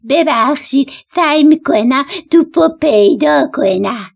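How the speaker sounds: slow, put-on boar apology; sheepish storybook boar; ashamed boar. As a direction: apologise as an embarrassed boar, drawn out. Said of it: "گراز با شرمندگی گفت".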